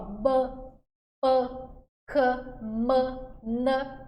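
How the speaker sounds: B, P, Q, M, N each sounded out apart with pauses; consonant demo. Shown as a demonstration. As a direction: sound out each letter for the class to copy. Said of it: "faz aí comigo, ó". (consoantes pronunciadas uma a uma, com pausas)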